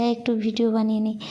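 talking with a toothbrush in mouth; while brushing teeth. Real, not acted. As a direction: mumble through brushing teeth. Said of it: "brush করতে করতে ওর সাথে একটু বলছি".

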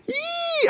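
a squeaky high whoop; high yelp. Real, not acted. Exclaims after thanking lady.

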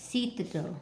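Citadel with "Cit" stressed; CIT-a-del, stress demonstration; stress on first syllable. Shown as a demonstration. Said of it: "nặc âm một này".

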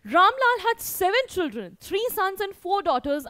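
lifted, deliberate textbook narration; story read-aloud. A narrator's reading. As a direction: read the text out clearly to pupils. Reads the story text aloud to pupils.

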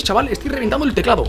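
ordinary talk, nothing marked

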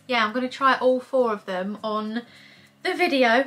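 breathless, talking between breaths; a little winded while chatting. Real, not acted. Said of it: "I don't know why I'm out of breath".

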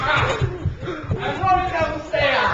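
mock heroic.

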